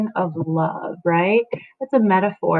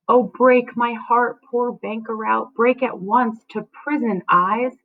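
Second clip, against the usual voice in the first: mild anguished reading; grieving Juliet; 3 semitones higher than usual. Acted.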